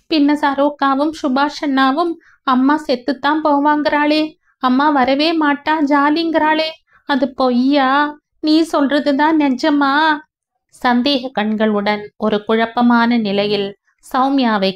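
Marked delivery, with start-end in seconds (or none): 0.1-9.9 put-on higher child's voice, begging for her mother; a small girl pleading with her aunt; pleading little girl. Narrator voices little Kamala. (அம்மாவைப் பார்க்க கெஞ்சும் சிறுமியின் உயர்ந்த குரல்)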